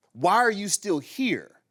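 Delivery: slow, mad demand retold; exasperated. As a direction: stretch it out, fed up with her. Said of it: "I'm mad that she's still".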